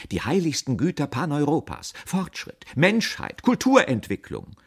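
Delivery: high, ringing slogans; lofty, rising speechifying; international oratory. A narrator's reading. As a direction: proclaim each grand word like an orator. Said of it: "spricht die Symbolfigur international".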